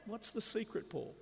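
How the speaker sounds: loud, high mock-frustrated outburst; exasperated demand. Preacher acting out himself reading Paul, loudly exasperated. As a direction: burst out, desperate for the answer.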